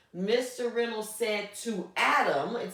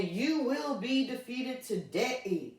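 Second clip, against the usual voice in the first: mild sneer; 4 semitones higher, slower than usual. Acted. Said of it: "Sneered Goliath".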